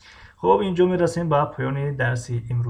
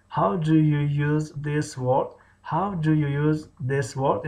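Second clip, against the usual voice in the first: measured language-lesson delivery; teacher modelling. Shown as a demonstration. Teacher models phrase for learners.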